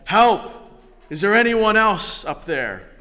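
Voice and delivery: loud, high shout up the cliff; man on a branch refusing God, yelling for anyone else; yelling for help. Acted. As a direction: bellow it, hoping someone else answers. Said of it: "Jack yelled".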